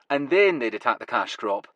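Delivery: Huey confirming her guess; Glasgow accent. Acted. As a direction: Glaswegian reply. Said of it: "his Glasgow accent now going full throttle".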